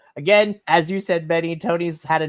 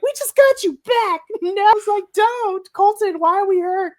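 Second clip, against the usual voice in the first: high, loud mock wail; hammed-up high-pitched plea; mock distraught fan; 5 dB louder than usual. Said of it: "I'm like".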